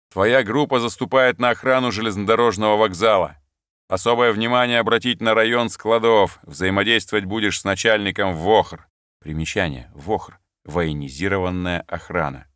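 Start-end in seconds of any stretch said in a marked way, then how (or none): 0.1-8.9 firm, louder orders to the sergeant; commanding officer. Acted. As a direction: hand out the duty orders crisply. Lieutenant giving orders. (властный приказ офицера)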